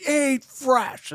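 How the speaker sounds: high, drawn slogan at normal volume; mock prank call-out. Friend imagining the drive-thru prank, piping up high.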